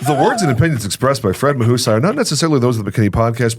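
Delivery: quick mock legal disclaimer; disclaimer read. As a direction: rattle it off like a legal notice. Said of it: "Here's my disclaimer".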